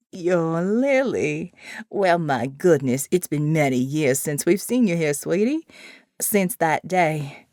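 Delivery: put-on a sweet, frail elderly nun; kindly old woman.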